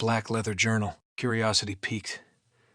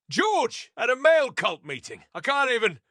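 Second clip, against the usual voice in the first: stifled laughter; 11 semitones higher, 4 dB louder than usual. Acted. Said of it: "trying to stifle laughter".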